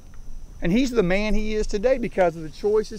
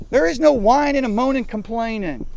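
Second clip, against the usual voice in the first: raised voice; 3 semitones higher, 4 dB louder than usual. Real, not acted. Coach pounding the rule.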